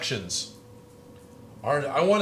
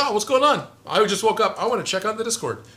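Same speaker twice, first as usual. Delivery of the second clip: high, louder mock-eager greeting; chirpy imitation; 8 semitones higher, 4 dB louder than usual. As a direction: act out an eager newcomer popping in. Acting out someone waking, checking chat.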